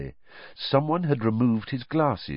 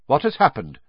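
sharply; 5 semitones higher, 4 dB louder than usual. Acted. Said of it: "said Dumbledore sharply".

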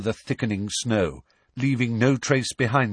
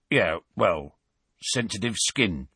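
ingratiating. Acted. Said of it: "attempting an ingratiating smile".

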